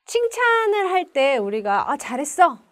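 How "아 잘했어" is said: praising adult. Shown as a demonstration. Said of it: "막 이런 얘기 어른들 하잖아요".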